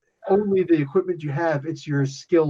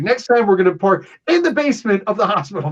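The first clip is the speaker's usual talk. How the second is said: higher, emphatic mock complaint; mock exasperated quote; 5 semitones higher, 4 dB louder, faster than usual. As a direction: push it out as an animated imagined remark.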